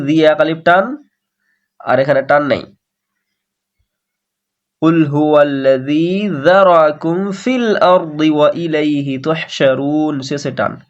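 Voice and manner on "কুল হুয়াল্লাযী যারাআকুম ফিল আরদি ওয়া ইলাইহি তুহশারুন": quick vowels, lengthen only the long spots; recite, stretching just the marked madd; tajweed recitation. Shown as a demonstration. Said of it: "এক জায়গাতে খালি জি এ টান". (তাজবিদসহ তিলাওয়াত, শুধু মাদে টান)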